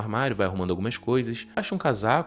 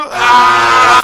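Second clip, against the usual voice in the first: loud high frustrated scream; exasperated scream; 13 semitones higher, 18 dB louder than usual. Real, not acted. Fed up with the movie couple, a sharp loud scream. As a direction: let out a furious yell.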